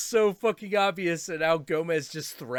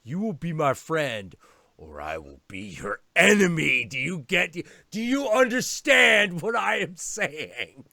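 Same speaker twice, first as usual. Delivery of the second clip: threatening cat; 6 dB louder than usual. Retold or imitated. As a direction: press it word by word. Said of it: "He's like".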